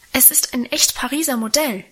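a daughter justifying her hat, mildly agitated; agitated defending. Acted. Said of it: "verteidigte sich Minchen aufgeregt". (leicht aufgeregt, sich verteidigend)

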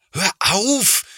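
high, sharp horrified "stop"; horrified cry. A narrator's reading. Big brother crying out at little brother smearing sugar, horrified. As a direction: stop him at once. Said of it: "ruft Thomas entsetzt".

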